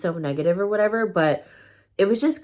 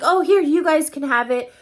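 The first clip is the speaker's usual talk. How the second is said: nice offer; 9 semitones higher, 5 dB louder than usual. Retold or imitated. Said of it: "it was so nice of him".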